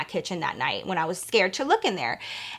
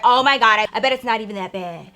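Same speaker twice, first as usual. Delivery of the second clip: loud exasperated opening, dismissive finish; mock a fed-up mom; imitated irritated mom; 4 dB louder than usual. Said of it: "My mom is all irritated".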